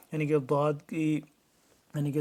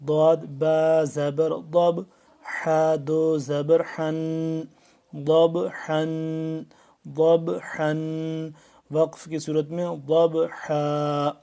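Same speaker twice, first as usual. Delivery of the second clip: slow spelling drill; slower than usual. Shown as a demonstration. Teacher chants the spelling drill.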